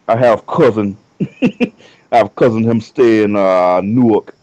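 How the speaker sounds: rough attempt at Jamaican patois; lightly put-on Jamaican accent; bad Jamaican accent. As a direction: do a half-hearted Jamaican accent. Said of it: "that's my bad Jamaican accent".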